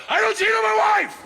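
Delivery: high, full-voiced shout; mock outburst. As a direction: announce it to the whole room at top volume.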